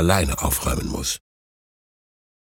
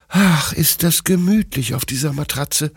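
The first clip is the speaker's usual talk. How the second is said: high, cosy sigh of relief; contented; 8 semitones higher than usual. A narrator's reading. Bruno the dog settles on the mattress, contented. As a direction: voice a snug little dog's thought, pitched up.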